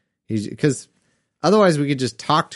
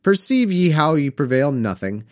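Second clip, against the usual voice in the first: put-on measured read-aloud of old Bible verse; scripture reading. A narrator's reading. Reads scripture aloud between comments.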